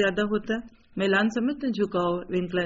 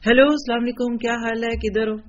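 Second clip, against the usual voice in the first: sweet phone greeting; 3 semitones higher, 4 dB louder than usual. Pretend. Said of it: "بڑے پیار سے کہتی ہیں".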